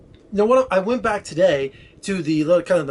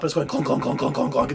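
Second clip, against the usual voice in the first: imitating a clunking tire; 2 semitones lower than usual. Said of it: "It's making that noise".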